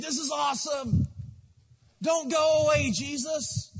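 awed followers begging; excited disciples. Acted. Disciples begging Jesus not to leave, excited pleading.

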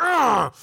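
a loud, high mock groan of envy; disgusted groan. Kid spots the biggest gift isn't theirs, loud mock groan. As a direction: let out a jealous "ugh" at the big present. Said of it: "you're like".

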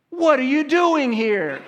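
high and slow through a laugh; laughing silly question. Retold or imitated. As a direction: ask it giggling at yourself. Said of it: "you ask all those silly questions".

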